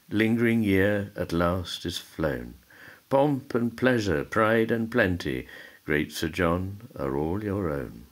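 metrical verse reading with lifted line openings; poetry recital. Acted. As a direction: recite it as rhymed verse, pausing at line ends. Recites the poem.

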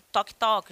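quick knock knock; door knock. Shown as a demonstration. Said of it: "imitando o barulho da porta". (imitando batida na porta)

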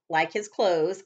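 ordinary delivery, nothing marked

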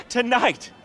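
punched phrases with big pauses; club MC announcement. Acted. DJ Laszlo introducing Solomon at the opening, hyped announcer. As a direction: build to drawn-out shouted names for the crowd.

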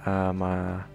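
talking with a numb mouth after wisdom teeth. Real, not acted. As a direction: numb mouth, careful speech. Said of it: "I'm still a little numb".

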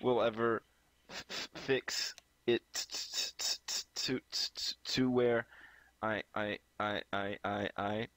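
dragging through broken starts; fake stutter. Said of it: "fake stutter".

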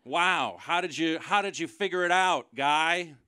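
fake-gasp at his genius; sarcastic wow. Sarcastic mock awe at heckler.

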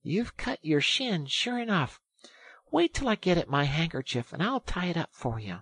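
high-voiced, helpful sympathy; kindly. A narrator's reading. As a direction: reassure an injured friend. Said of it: "said the rat kindly".

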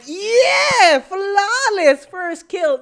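high, loud triumphant yell; victory shout. Real, not acted. Gamer celebrating his first kill, loud and high. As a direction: roar it after the kill.

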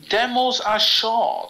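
drawn-out British delivery; British accent. Real, not acted. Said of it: "Why am I going more British?".

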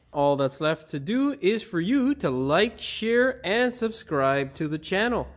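upbeat outro retake with lifted SHARE; video presenter. Acted. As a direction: wrap up for the viewers, lightly punched.

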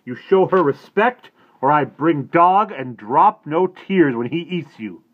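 loud, high furious roar. A narrator's reading. Little Bear scolding the boy for disrespect, furious roar. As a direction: bellow the scolding. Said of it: "roared Little Bear".

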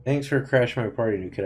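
dry sarcastic thanks. Pretend. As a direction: say it sarcastically, not meaning it. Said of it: "I meant that sarcastically".

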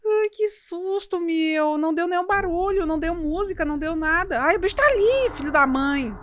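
high, frightened, breathless exclaiming; real jump-scare panic, voice up high; startled scared squeal. Real, not acted. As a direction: shriek out the fright, then keep panicking. Jump scare by game monster.

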